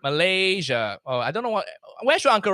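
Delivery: put-on comic Asian-accent uncle; Uncle Roger. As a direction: keep up the Asian-accented character. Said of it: "It's just me with an Asian accent".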